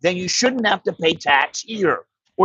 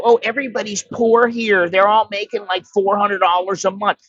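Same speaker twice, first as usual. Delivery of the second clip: higher, lightly mocking know-it-all voice; mock naive visitor; 3 semitones higher than usual. Vlogger mimics people who think all Thais are poor, mocking. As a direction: parrot the naive outsider view with scorn. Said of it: "where you go".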